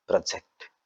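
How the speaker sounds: പ്രൊജക്ട് with short first syllable, weight on ജക്ട്; stress on second syllable. Shown as a demonstration. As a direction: say പ്രൊജക്ട് as the verb, leaning on ജക്ട്. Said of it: "ജക്റ്റലാണ് പോകുന്നത്".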